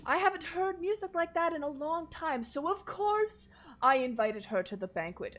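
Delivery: lightly voiced gushing host; jovial nobleman. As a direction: gush about your guests. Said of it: "he goes".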